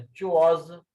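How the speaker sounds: "chu" as in चूहा, gliding into च्वाज; च्वाज opening like चूहा. Shown as a demonstration. Teacher shows how to begin च्वाज, "chu" first like चूहा. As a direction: start च्वाज the way चूहा starts. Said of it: "चूहे की तरह बोलना है पहले".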